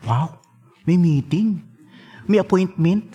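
slow, amused mock wonder; mock surprise. A father amused that his child asks for a private talk, slow mock surprise. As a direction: tease the child gently.

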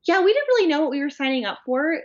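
imitating a giddy, clueless British reality couple; mock clueless contestant. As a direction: gush it like a naive contestant. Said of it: "And they're like".

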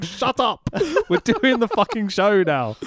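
real laughter breaking into the rant; laughing rant. Real, not acted. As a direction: giggle out the complaint. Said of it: "laughing while ranting".

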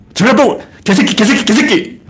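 high-pitched, repeated hammed-up insult; mock cursing. Local rival outdoes others insulting Jeolla, mock cursing. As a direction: hurl the curse as a winning bid. Acting out escalating regional insults.

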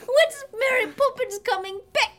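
put-on theatrical childlike pleading; lightly voiced whining child. Child objecting to vegetables, mock whine. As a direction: whine the request pitifully. Child asks after nanny.

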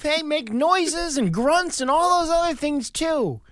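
high, hammed-up manly boast; put-on puffed-up voice; mock proud. Echoes in put-on voice.

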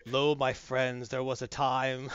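low, slow mock-epic orator; hammy stage actor. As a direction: ham it up like a bard. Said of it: "just narrate your lunch".

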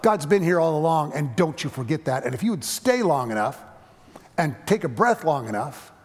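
lightly voiced old resident scolding the boy; stern old woman. Elderly resident scolds arrogant young minister, stern and loud.

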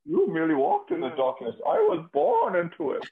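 high, theatrical villain with a Muppet edge; Tom Hardy. Acted. Masked villain boasting to Batman, comic impression. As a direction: lift it high and declaim grandly. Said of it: "Tom Hardy impression".

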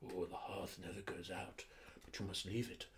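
hushed, eerie whisper; spooky whisper. Pretend. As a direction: whisper it like a ghost story. Spooky ancient voice for creepiness.

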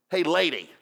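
mock shout at an unknown passer-by; impersonal hail. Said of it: "kind of impersonal".

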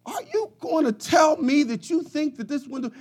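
high, strained cry of outrage; furious outburst. Retold or imitated. Customer yelling at the attendant over the window, furious. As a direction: yell at him in disbelief.

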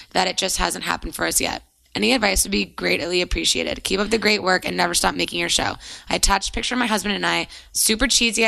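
measured read-aloud of a listener's letter. Real, not acted. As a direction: read it out clearly, phrase by phrase. Resumes reading the letter.

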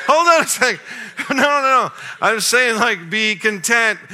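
high, loud, exasperated outburst; a dad losing patience with his son who still wants the game. Retold or imitated. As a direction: throw up your hands at the kid.

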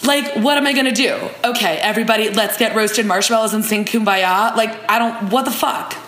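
a hint of an exasperated reality-show guy; mock-annoyed, barely put on; Alonzo, lightly acted. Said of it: "I will be playing the role of Alonzo".

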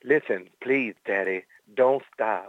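low, slow, seductive purr; slow it down and make it sultry. Pretend. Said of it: "he'll even do it as Jerome Boger".

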